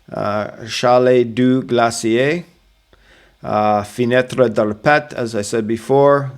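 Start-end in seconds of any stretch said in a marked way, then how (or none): 0.7-2.5 slow careful French Chalet du Glacier; French pronunciation. Shown as a demonstration. Guide teaching hikers a French place name.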